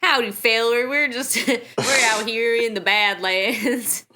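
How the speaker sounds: hammed-up Southern drawl; cowboy Southern accent. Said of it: "the Shin are gonna be Southern".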